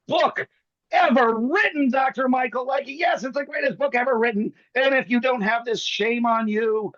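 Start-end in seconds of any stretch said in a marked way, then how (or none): 0.1-4.5 hammed-up hype. Hyping the book as the greatest.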